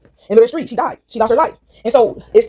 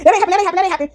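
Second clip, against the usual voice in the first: mock denial; 9 semitones higher than usual. Mocking the denial about the door.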